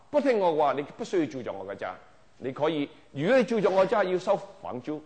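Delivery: a hint of a strict dad laying down the law; stern father scolding. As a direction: scold the daughter who won't study, building to a peak then easing. Father scolds daughter, quoted.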